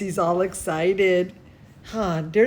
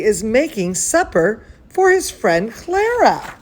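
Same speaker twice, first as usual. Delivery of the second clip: put-on bright, lively read-aloud for kids; storybook narration to children; story reading. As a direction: read it like bedtime story time. Reading a picture book aloud.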